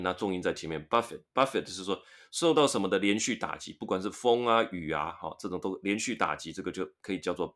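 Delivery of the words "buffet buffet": "buffet" with the T sounded and stress on BUF; buffet, stress first. Shown as a demonstration. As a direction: say "buffet" as BUF-fit, T pronounced. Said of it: "它T要发音，那重音在前面". (buffet重音在前，T要发音)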